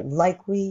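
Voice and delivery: "like we" with the K of "like" swallowed; don't push the K, glide into "we". Shown as a demonstration. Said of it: "飲んだ感じ。". (「like we」のクを飲み込む感じで)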